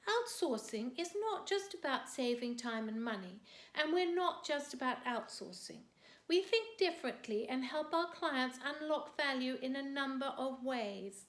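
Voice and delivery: lightly voiced company sales copy, lifted and emphatic; a hint of a corporate promo; corporate website pitch. Poet quoting Capita's website, lightly mock corporate pitch.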